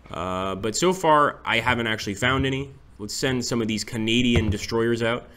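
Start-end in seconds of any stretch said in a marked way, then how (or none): 3.0-5.3 put-on light Canadian accent, casual. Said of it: "I said that in a Canadian accent".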